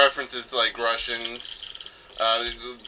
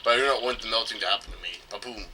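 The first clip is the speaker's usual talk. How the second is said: mock Russian accent; 2 semitones lower than usual. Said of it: "it wasn't a Russian accent".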